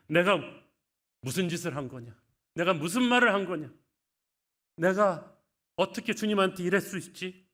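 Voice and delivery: loud, high anguished outcry; Peter's loud, wailing self-reproach; anguished cry. Acted. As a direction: cry out in remorse, voice straining. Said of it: "심히 통곡했다고".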